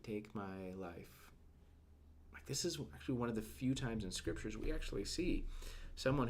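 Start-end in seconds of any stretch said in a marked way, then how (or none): 0.0-1.3 very slow, soft, drained request; a whispered surrender to God; hushed plea. Retold or imitated. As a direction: let the words barely come out. Repeats Elijah's plea.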